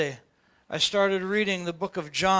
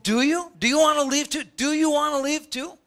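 pleading challenge; 6 semitones higher than usual. Retold or imitated. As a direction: push it like Jesus asking his friends straight. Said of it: "he says".

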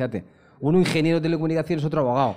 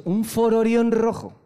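louder, higher, laughing build; excited; 7 semitones higher, 4 dB louder than usual. Real, not acted. Telling friends about the crew, excited laughing. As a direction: pile up the punchline gleefully.

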